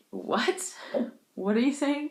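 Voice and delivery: high, puzzled mock disbelief; baffled friend. Friend hearing a garbled word, high baffled question. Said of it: "looked at me like I was alien".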